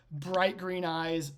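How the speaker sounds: ordinary talk, nothing marked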